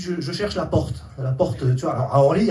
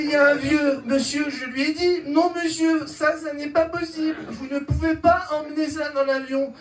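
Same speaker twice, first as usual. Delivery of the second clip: prim airport agent; 6 semitones higher than usual. Retold or imitated. Airport woman quoted, prim.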